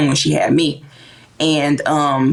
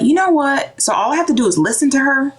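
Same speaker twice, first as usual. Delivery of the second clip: put-on inner kid voice, raised; 7 semitones higher than usual. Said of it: "I thought".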